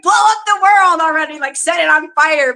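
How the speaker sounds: high, fed-up mock outburst; mock exasperation. Fed up with humanity, playing the villain, mock exasperated.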